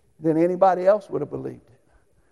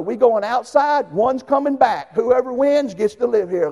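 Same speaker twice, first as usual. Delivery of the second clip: mild challenge; 3 semitones higher, 5 dB louder than usual. Retold or imitated. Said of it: "I told my brother".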